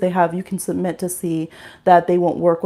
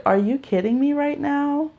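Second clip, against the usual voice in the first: disbelief; 6 semitones higher than usual. Retold or imitated. Outraged at driver's message.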